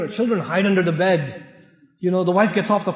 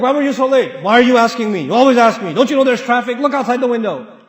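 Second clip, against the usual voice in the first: irritated retort; 4 dB louder than usual. Acted. Husband snapping back at wife.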